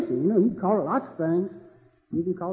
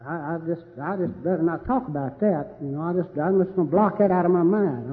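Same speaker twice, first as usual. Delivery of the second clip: mock evasive; 4 dB quieter than usual. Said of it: "It sounds like".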